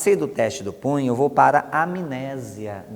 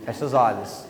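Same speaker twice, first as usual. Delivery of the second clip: laughing command; 3 semitones lower than usual. Shown as a demonstration. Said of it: "tem gente que abre os olhos".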